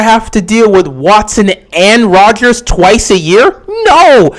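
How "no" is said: louder flat refusals, one after another; emphatic no. Real, not acted. Host rejecting a chat question, loud repeated refusals. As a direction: shut the idea down firmly, louder each time.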